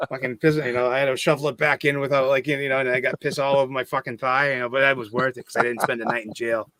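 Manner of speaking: mock local guide with a Boston accent; Boston tour guide. Local showing visitors the Freedom Trail, mock Boston guide. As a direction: show them round in thick Bostonian. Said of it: "Bostonian accent was so thick".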